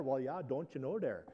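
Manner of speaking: folksy Norwegian-American northern lilt; northern Norwegian accent. Shown as a demonstration. Preacher passing as a local back home, northern Norwegian accent. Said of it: "and throw that in there".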